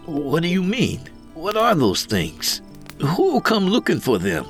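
high-pitched anxious questioning; bewildered. A narrator's reading. Greenhorn asks who will come looking, high and bewildered.

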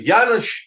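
"Janusz" said loudly and high, as he got it wrong; mangled name. Retold or imitated. Guitarist mispronouncing the painter's name, calling out "Janusz". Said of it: "he never got my name right".

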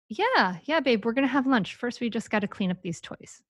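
easygoing parent, no big deal; low-drama reassurance. Acted. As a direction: keep it casual and unbothered. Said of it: "little drama as possible".

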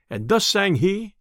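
plain reading voice

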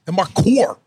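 exaggerated LA hood accent with a high swoop; LA dude accent. Shown as a demonstration. Showing off the LA dude on request, thick accent. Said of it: "The L A dude?".

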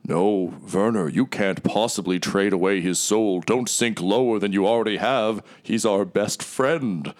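lightly voiced pleading bow; slow, measured plea; voice in the head. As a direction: plead slowly, drawing words out. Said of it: "you hear a voice say".

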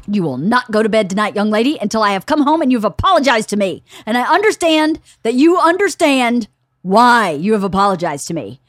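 fast, emphatic scolding; retold stern order with punched words; stern parent. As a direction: imitate a dad laying down an ultimatum. Dad lectures daughter before leaving.

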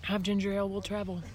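hoarse near-whisper; raspy whisper. Real, not acted. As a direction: croak it out with little voice. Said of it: "I have no voice left".

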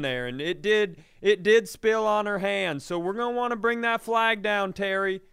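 high, loud, overly solemn staff memo; mock hotel manager. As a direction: announce it like a pompous manager ordering the flag down. Voiced hotel manager to Terry.

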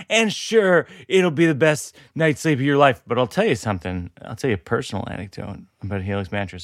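low-key, personal sponsor pitch; podcast ad read. Real, not acted. Host pitches a mattress to listeners, wry ad read. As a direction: confide a mock-serious testimonial.

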